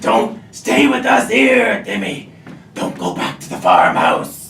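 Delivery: husky gnome voice with swooping pitch. A corn gnome urging Timmy not to go back to the farmhouse, husky corn gnome voice. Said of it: "With the husky voice?".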